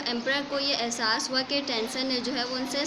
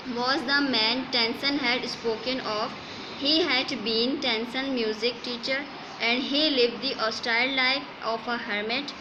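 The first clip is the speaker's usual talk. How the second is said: slow, measured textbook reading; story read-aloud; much slower than usual. A narrator's reading. Teacher reads English story to students, slow measured read-aloud. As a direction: read it out phrase by phrase.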